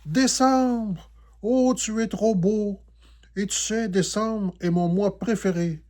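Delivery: high, loud thrilled cry; delighted exclamation. A narrator's reading. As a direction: gush over the gift.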